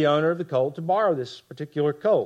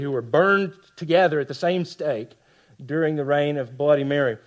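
ordinary delivery

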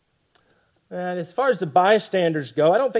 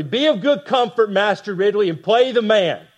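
calling out bravely; 4 semitones higher, 4 dB louder than usual. Retold or imitated. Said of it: "Latimer calls out bravely".

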